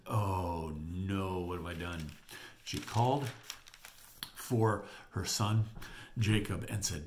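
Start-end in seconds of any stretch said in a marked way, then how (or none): 0.1-2.1 low, sinking acted dismay; understated voiced regret; dismayed mother. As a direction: let it fall away softly by the end.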